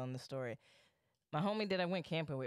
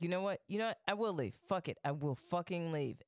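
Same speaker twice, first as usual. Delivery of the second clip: raised, indignant retold comeback; heated retort; 3 semitones higher, faster than usual. Acts out drunken quarrel with roommate.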